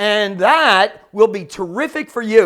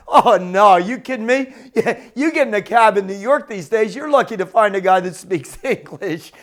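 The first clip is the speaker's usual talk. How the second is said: amused cabbie, chuckling between phrases; imitated laughing. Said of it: "he starts laughing and he says".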